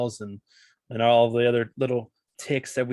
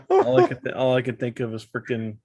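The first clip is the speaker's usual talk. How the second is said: about to laugh; 3 dB louder than usual. Real, not acted. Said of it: "I was holding it together".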